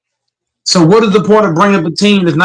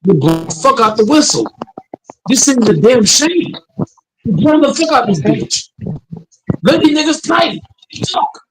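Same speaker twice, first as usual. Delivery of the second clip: raised, pitched-up angry ranting; heated rant; 5 semitones higher than usual. Real, not acted. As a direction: vent at the refs. Ranting about referees' whistles.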